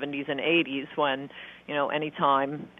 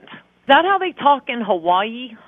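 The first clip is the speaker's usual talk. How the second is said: mocking; 8 semitones higher, 6 dB louder than usual. Real, not acted. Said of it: "where he got that accent".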